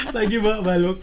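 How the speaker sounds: repeating it through a laugh. Real, not acted. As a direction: let the laugh spill into the words. (sambil tertawa)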